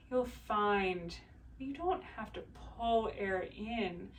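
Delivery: calm, unhurried guiding voice with long pauses; guided body scan. Real, not acted. Leads breathing body scan.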